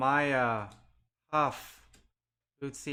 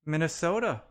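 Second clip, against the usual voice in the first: excited; 4 semitones higher, 6 dB louder than usual. Real, not acted. Good card pulled on stream.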